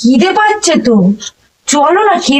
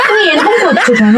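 asked through a laugh; half-laughing, half-exasperated; laughing while begging an answer; laughing plea; 3 semitones higher than usual. Real, not acted. Coaxing partner, laughing exasperation.

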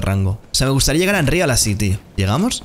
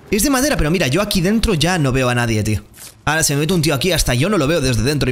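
usual speaking voice

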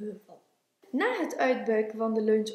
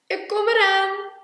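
raised, loud reply; Groot answering; 8 semitones higher, 9 dB louder than usual. A narrator's reading. Groot calling back to Klein that he is coming, calling out. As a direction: call back to your friend. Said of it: "zei Groot".

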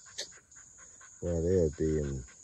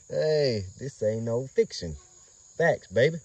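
hyped boast; 7 semitones higher, 6 dB louder, slower than usual. Real, not acted. Hyping his dog's bloodline.

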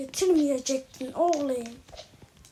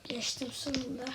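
lower, whispered relief; whispered relief at finally passing; relieved whisper; 4 semitones lower, 14 dB quieter than usual. Real, not acted. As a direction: breathe the win out softly.

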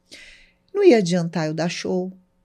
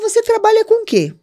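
suspicious question; 13 semitones higher, 5 dB louder than usual. Retold or imitated. Kidnapper asks suspiciously.

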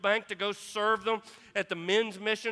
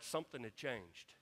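something had changed dropped very soft and low; hushed reveal; 7 semitones lower, 15 dB quieter than usual. Real, not acted. Preacher to congregation: hushed emphasis. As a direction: let it sink in, barely spoken. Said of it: "repeated dramatic drop".

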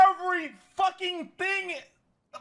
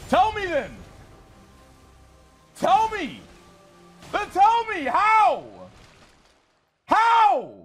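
exasperated. Real, not acted. Streamer demands answers from chat.

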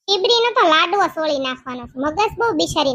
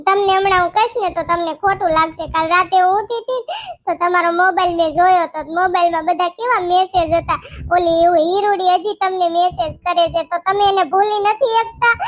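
higher, complaining wife's voice; wife voice, higher, accusing and upset; hurt wife; 4 semitones higher than usual. Acted. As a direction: whine at the husband, wounded and dramatic. Wife confronting husband over messages.

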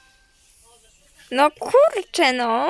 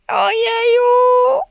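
gasping ojeju; 9 semitones higher, 5 dB louder, much slower than usual. Real, not acted. Reacting to sweet viewer messages.

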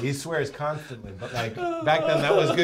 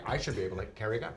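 Vince Vaughn; 4 semitones lower, 8 dB quieter, much faster than usual. Retold or imitated. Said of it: "he kept going on about".

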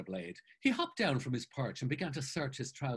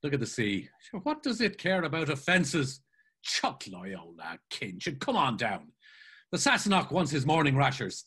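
lightly voiced jovial friend; animated coaxing with louder bursts; jolly a friend out of a sulk; breezy, chivvying Mulligan; 2 semitones higher, 5 dB louder than usual. Mulligan chivvies his brooding friend.

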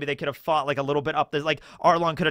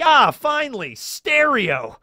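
Buggy voice; 9 semitones higher, 5 dB louder, much slower than usual. Retold or imitated. Buggy's ear reattaching.

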